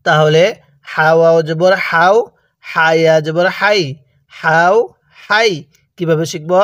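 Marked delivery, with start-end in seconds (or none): 0.9-5.5 "হাও" and "হাই" with light air on the h; airy h. Shown as a demonstration. Teacher shows learners the letter ha, "হাও", "হাই" with light air. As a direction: let a little breath out on the h of "হাও" and "হাই". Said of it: "মুখ দিয়ে হালকা বাতাস বের করবেন".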